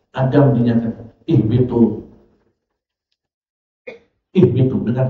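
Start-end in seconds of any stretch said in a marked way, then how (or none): 1.2-2.0 lower, measured dismissal; calm, courteous order; dignified gentle command. Retold or imitated. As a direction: send them down respectfully. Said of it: "Dengan kalimat yang indah".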